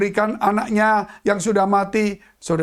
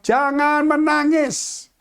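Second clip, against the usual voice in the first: slow comfort; 5 semitones higher, much slower than usual. Acted. Jesus speaks to widow.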